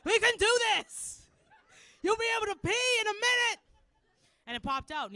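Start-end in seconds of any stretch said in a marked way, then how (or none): 0.0-3.6 high, loud coaxing cheerleader voice; pep-talk it out like a nurse; mock coaxing. Nurse coaxing a patient's stuck body part.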